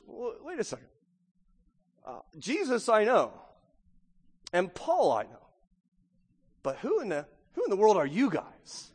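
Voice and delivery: a light, half-hearted demon taunt. Acted. Possessed man questioning the seven sons, lightly voiced demon. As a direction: talk like a demon would, mocking. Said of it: "I was trying to talk like a demon would".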